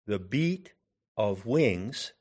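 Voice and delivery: "the beat of wings", soft, split in two with BEAT and WINGS stressed; the BEAT, of WINGS, as two separate iambs; iambic stress. Shown as a demonstration. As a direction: lift "beat", pause, then lean on "wings". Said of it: "The accent is on the second syllable".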